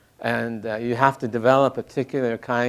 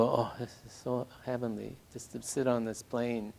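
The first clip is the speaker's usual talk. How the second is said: retold relief; 10 dB quieter than usual. Acts out relief on the plane.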